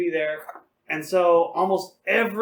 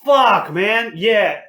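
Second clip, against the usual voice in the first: louder, mock drunk whoop; rowdy drunk cheer; 2 semitones higher, 6 dB louder, much slower than usual. Drunk guy at the drive-thru window, rowdy loud cheer. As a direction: ham up a rowdy late-night cheer. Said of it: "And be like".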